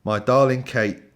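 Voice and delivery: put-on generic British accent. Host reading a footballer's love poem, generic British accent. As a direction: read it in an approximate British accent. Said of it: "just gonna do generic British accent".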